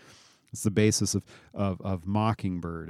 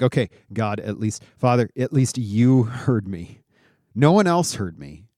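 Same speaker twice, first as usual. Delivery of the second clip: frustrated prayer; 2 semitones higher, 6 dB louder than usual. Retold or imitated. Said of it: "He's like".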